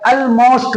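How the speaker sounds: almost as "al-most" with a clear L; slow almost, L fully sounded; wrong pronunciation. Shown as a demonstration. Teacher mimics what people say, clear-L mispronunciation. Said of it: "गलत है भैया".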